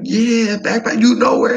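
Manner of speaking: very high, loud question; match the local's English; squeaky hopeful question; high eager reply. Retold or imitated. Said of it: "I'm like".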